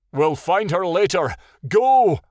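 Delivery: high, urgent command; urgent cry. A narrator's reading. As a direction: call out, punching the final word. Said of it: "Tattle cried".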